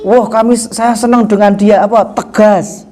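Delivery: lightly voiced naive admirer praising a harsh boss; admiring follower. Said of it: "Kadang ada orang salah memahami". (pengagum naif yang memuji pemimpin kasar)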